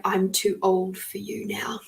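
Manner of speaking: hushed whisper, sad farewell; whispered goodbye. Retold or imitated. A girl whispering farewell to the fairies she outgrew. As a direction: whisper it as you walk past them.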